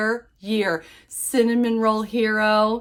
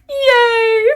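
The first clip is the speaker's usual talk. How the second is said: happy yay; 14 semitones higher, 9 dB louder than usual. Real, not acted. Thanking her online friend.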